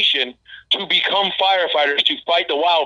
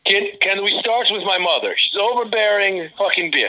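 put-on Russian accent; 3 semitones higher than usual. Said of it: "I don't know why I'm doing it in Russian".

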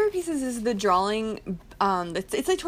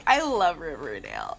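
mock shout; 4 semitones lower than usual. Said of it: "we're going into the Archie comic with".

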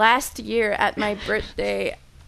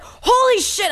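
high, louder awestruck cry; freaking out; 12 semitones higher, 4 dB louder, slower than usual. Retold or imitated. Friend retelling how she spotted the German wine, freaking out. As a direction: gasp it out in retold amazement.

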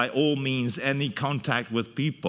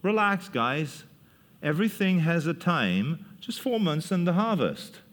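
easygoing proverb. Acted. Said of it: "a kind of a proverb saying".

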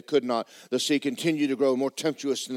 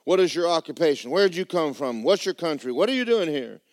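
frightened sailors; 6 semitones higher, 5 dB louder than usual. Acted. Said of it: "And they said".

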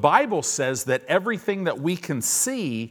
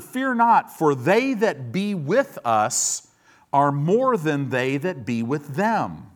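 bold prophet; slower than usual. Acted. Elisha reassures his frightened servant, bold and slowing. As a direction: proclaim it boldly, no fear at all. Elisha calmly rebukes fear.

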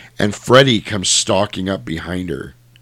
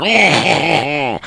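higher drawn-out mock cry; attacking roar; 6 semitones higher than usual. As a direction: imitate the monster's grab noise. Voices Freddy grabbing the mom.

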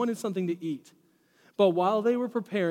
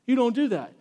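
"You don't do that" said higher and louder, as a stern warning; 5 semitones higher, 5 dB louder than usual. Shown as a demonstration. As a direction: press it like a red flag. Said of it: "It would be like massive red flags".

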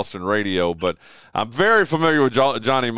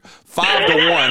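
slow countdown DJ voice; slow, loud radio countdown announcer; Casey Kasem style; 3 semitones higher, 3 dB louder, much slower than usual. Pretend. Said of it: "Casey Kasem style".

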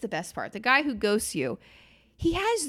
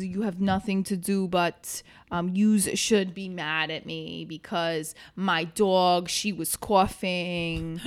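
mock neighborhood guy; 2 semitones lower, slower than usual. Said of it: "he talks in plural nouns".

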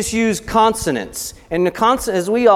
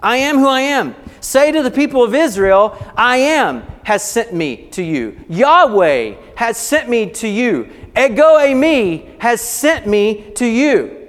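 voice of God; 3 semitones higher than usual. Acted. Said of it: "So it got all this stuff mixed up".

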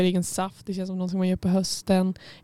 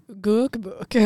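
Skåne accent. Shown as a demonstration. Host trying out how southerners say a word, imitated Skåne accent. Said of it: "Någonstans i Skåne".

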